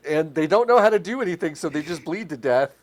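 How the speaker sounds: hammed-up true crime announcer. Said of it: "Law and Order episode where they're like".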